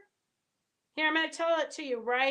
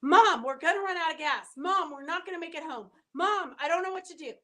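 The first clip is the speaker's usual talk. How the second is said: loud, frantic pleading with a tearful crack; imitating a scared kid yelling that the gas is running out; mock-panicked son yelling at mom from the driver's seat; 3 semitones higher, 4 dB louder than usual. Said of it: "yelling at me".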